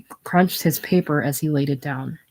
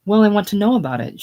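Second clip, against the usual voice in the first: higher, fast insistence; insistent; 6 semitones higher, 4 dB louder, faster than usual. A narrator's reading. Wife presses husband about vacation, fast and insistent. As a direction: press him for an answer quickly. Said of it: "she reiterated".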